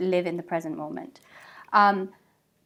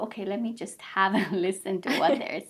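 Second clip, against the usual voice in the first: amused curiosity. Retold or imitated. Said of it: "tune into that noise and go".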